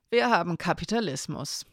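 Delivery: like a weather report. Acted. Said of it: "weil es wie ein Wetterbericht klang".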